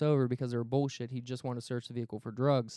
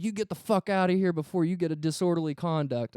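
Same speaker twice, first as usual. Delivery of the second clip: higher-pitched, mildly heated imitation of a cop; retold angry threat; 5 semitones higher than usual. Cop ordering the driver to leave, mock angry threat. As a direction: warn him off with a raised pitch.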